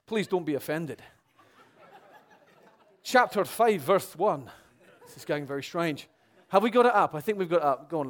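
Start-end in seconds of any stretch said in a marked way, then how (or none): 3.0-4.5 hammed-up Scottish reading; mock-Braveheart Scottish verse call; Scottish accent. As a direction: announce it in a put-on Scottish accent. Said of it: "a Braveheart kind of Scottish accent".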